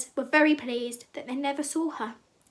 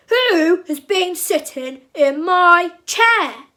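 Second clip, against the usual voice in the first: very slow, loud booming bear cry; big grumpy bear; 6 semitones higher, 12 dB louder, much slower than usual. A narrator's reading. Papa Bear finds his chair messed up, big grumpy roar. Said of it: "he cried in his big, grumpy voice".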